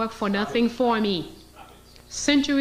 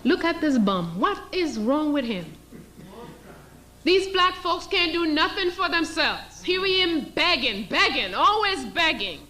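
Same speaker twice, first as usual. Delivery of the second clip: sneering master, pitched higher toward the end; a lightly voiced scornful master; mocking slave master; 5 semitones higher than usual. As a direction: scoff at the beggar. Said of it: "You know what I'm gonna say?".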